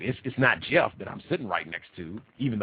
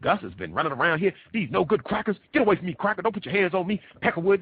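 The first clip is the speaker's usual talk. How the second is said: mock angry rant; 6 semitones higher, faster than usual. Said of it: "I don't think anyone has reported to you".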